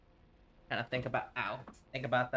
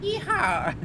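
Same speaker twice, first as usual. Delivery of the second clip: cowboy yell; 8 dB louder than usual. Pretend. Tennessean whooping a cowboy call.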